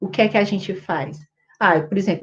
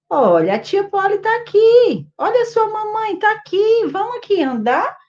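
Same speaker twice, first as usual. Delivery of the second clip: put-on high sing-song baby talk; 7 semitones higher than usual. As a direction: coo at a crying baby, pitched well up. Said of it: "Aí eu chego e digo assim". (voz aguda e carinhosa de falar com bebê)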